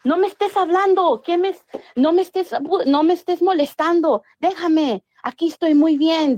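hammed-up frantic protest, pitched high; imitated frantic yelling. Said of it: "Estaba gritando y decía".

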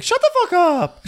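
high, loud shrieked line; hammed-up shout; mock yell. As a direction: shriek it at her. Brandy yells in recap.

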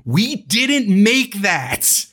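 lightly voiced polite Japanese producer. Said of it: "in a very polite Japanese voice".

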